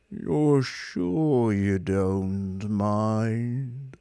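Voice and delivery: very slow, droning question; depressed robot probes; probing. Acted. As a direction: probe gloomily. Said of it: "probed Marvin".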